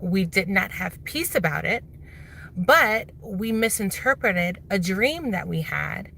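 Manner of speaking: talking with retainers in; slightly lisping through retainers; wearing a retainer. Real, not acted. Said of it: "Sorry, I have my retainers in".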